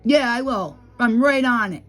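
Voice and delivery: mildly heated comeback; retold mild yell. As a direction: throw it back with a little extra volume. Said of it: "if that's yelling".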